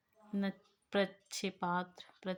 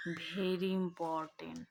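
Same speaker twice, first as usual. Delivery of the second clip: very important breathed slowly; whispered emphasis; much slower than usual. Acted. Teacher tells students an exam tip in a slow whisper. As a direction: lean in and whisper it like a secret tip.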